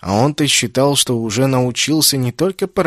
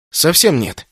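plain reading voice

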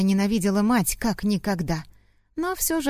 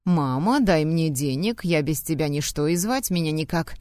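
squeaky mock whine; 3 semitones lower than usual. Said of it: "Писклявым голосом передразнила мать и противно рассмеялась".

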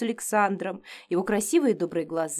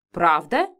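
lower, firm "Правда?" as a statement; firm matron affirmation; categorical reply; 4 semitones lower, 4 dB louder than usual. A narrator's reading. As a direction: answer flatly, no doubt. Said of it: "категорично отвечала главная моительница".

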